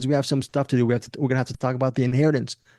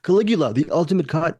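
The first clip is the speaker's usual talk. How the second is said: announcer hype; 3 semitones higher than usual. Acted. Announcing the film title.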